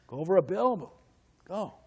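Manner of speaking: hammed-up bully daring a kid; mock bully taunt. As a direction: taunt him in a high sneering voice. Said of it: "He says".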